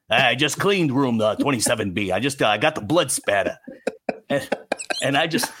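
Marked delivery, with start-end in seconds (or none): 0.1-3.6 a hint of a creepy motel housekeeper; lightly voiced hotel cleaner. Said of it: "who talks like this".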